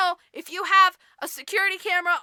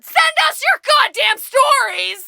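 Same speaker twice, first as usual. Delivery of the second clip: mock demand; 7 semitones higher, 11 dB louder, slower than usual. Real, not acted. Calling out to listeners.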